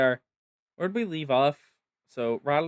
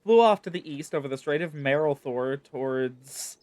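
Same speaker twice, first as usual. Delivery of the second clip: lightly voiced, brusque soldier in charge; gruff camp commander; faster than usual. Camp commander grumbling to the adventurer, lightly voiced. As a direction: sound like a tired officer with no beds to spare.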